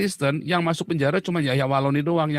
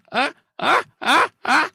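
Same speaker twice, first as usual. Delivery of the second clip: mock deaf grunts; 11 semitones higher, 5 dB louder, slower than usual. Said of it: "congek langsung".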